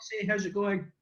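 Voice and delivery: put-on American accent greeting. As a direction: greet them in an assumed American voice. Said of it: "in an American accent".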